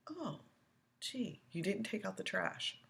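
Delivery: high sing-song mock gasp; mock dismay. Mocking the parent who only nags about trash. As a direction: play the fussy parent, lightly.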